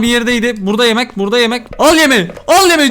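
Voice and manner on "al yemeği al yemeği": higher, louder urgent cry; loud urgent shout; excited yell. Real, not acted. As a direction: shout it as you grab it. Grabbing food in chase.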